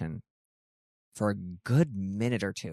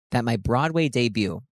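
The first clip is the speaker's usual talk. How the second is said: voice cracking; 2 semitones higher, 4 dB louder than usual. Real, not acted. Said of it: "my voice cracked during that".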